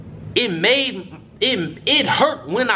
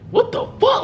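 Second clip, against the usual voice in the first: very high-pitched mock scream; retold scream. Teammate seeing the finger, retold high-pitched scream. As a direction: imitate his shocked screech, pitched way up. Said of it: "Like, he screamed it".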